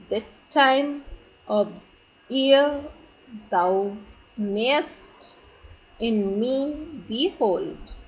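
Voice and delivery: word by word with long gaps, "time" and "year" stressed; measured verse demo, stress on every second syllable; iambic rhythm. Shown as a demonstration. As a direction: scan it slowly in iambs, leaning on "time" and "year". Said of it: "So this is the rhythmical pattern".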